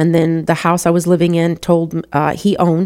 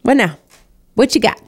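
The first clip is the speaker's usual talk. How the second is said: high, pushing challenge thrown upward; defiant challenge; 7 semitones higher than usual. Retold or imitated. To God after losing Kirk, a high defiant dare. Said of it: "And I remember telling God".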